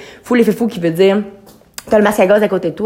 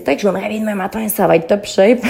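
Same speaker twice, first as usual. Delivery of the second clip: naive; faster than usual. Retold or imitated. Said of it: "la fille vraiment naïve".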